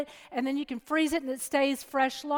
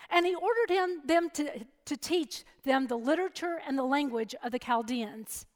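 scripture reading. Acted. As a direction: read the passage aloud to the congregation. Reads scripture from Daniel.

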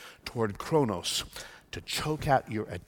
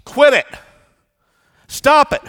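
higher, louder barked orders; sharp loud command; 13 semitones higher, 13 dB louder than usual. Shown as a demonstration. Preacher voicing God's blunt command to quit it. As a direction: snap it out like God telling you to stop. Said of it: "It goes something like this".

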